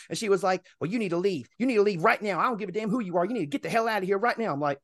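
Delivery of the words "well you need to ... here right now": mildly heated imitation, pitch lifting; retold angry order. Resident orders delivery driver to leave, mock angry. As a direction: order him out as the woman.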